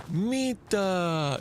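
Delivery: high shout of "Mita"; enemy AI callout. Retold or imitated. Streamer replays the enemy's high Finnish shout. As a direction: call it like the enemy soldier.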